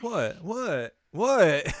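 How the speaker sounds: high-pitched, repeated innocent whats; hammed-up confused squeak; mock bafflement. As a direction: play clueless at being scolded. Acting Victor's baffled reaction.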